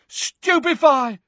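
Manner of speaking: shouted spell, very high and drawn out; Neville. A narrator's reading. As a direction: yell the spell at the enemy. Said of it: "Neville shouted again".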